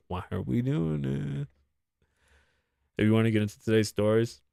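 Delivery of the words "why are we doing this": slow, softer drawn-out lament; quiet, stretched-out exasperation; weary plea. Real, not acted. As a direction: let it trail out long and soft. Repeats the complaint more softly.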